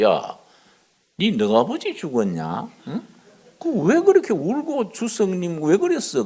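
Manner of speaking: incredulous teasing scold, pitch jumping up at the end; half-joking rebuke to a grown man crying; mock scolding. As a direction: needle him for crying at the shrine. Pastor scolds weeping chairman.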